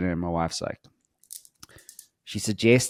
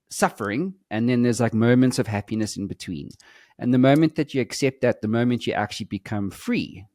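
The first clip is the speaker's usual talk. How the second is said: heated retold rant; 2 semitones higher than usual. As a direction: preach hard truths to the wife. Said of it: "I was like".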